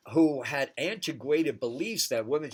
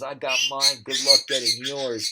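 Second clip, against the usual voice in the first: selfish racist voice; 8 dB louder than usual. Retold or imitated. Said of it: "the part that says".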